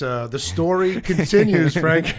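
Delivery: laughing through the words. Real, not acted. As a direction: chuckle as you say it. Laughs mid-sentence on air.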